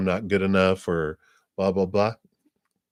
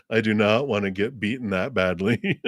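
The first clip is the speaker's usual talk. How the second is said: laughing refusal. Retold or imitated. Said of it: "they're like".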